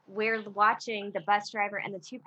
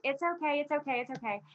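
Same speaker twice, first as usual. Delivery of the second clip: imitated soothing; 6 semitones higher, faster than usual. Pastor to crying woman on the bus, imitated soothing. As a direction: play a pastor hushing someone, pitch easing down.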